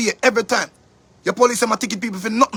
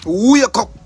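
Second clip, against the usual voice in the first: louder "Wake up", "wake" hit and falling; 6 dB louder than usual. Real, not acted. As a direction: command it with force.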